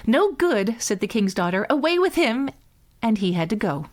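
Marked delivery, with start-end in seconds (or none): 0.1-0.7 sharp dismissal. A narrator's reading. Princess rejecting suitor. 1.7-2.5 commanding. A narrator's reading. Princess orders the tongue-tied suitor out, commanding.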